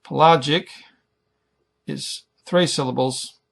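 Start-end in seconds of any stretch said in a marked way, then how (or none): 0.0-0.7 Pelagic with LA stressed; stress on middle syllable. Shown as a demonstration. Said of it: "the middle syllable is emphasized".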